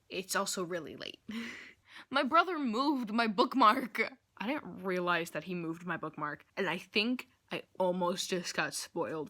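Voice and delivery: lisping through a retainer; wearing a retainer. Real, not acted. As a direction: talk round a retainer. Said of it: "I have my retainer on".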